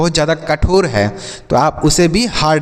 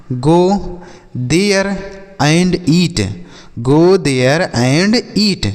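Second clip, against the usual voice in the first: slow model sentence; much slower than usual. Shown as a demonstration. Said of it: "ऐसे आप बोलेंगे".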